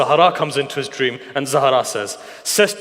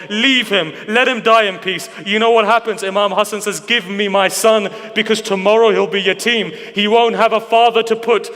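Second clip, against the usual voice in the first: raised-pitch religious storytelling at full emotional force; impassioned lament preaching; 3 semitones higher than usual. Acted. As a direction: preach the tragedy with mounting, grieving intensity.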